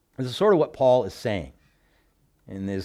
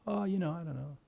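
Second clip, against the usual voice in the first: soft, higher noncommittal mumble; sheepish mock evasion; 5 semitones higher, 9 dB quieter, faster than usual. Ex-employee dodging old coworkers' question, sheepish and soft. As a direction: act out a quiet, vague dodge.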